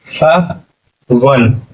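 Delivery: सावन stretched very slowly, falling; wrong form drawn out. Shown as a demonstration. Teacher showing pupils the wrong reading, slow. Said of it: "सावन नहीं होता".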